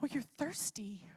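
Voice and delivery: soft whisper, imitating a caring friend; gentle comfort. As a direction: hush it tenderly to someone hurting. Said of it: "come around us and go".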